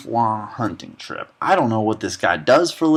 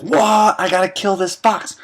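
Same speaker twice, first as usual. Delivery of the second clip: startled yelp; 9 semitones higher than usual. Retold or imitated. Owl voiced shouting mid-retelling.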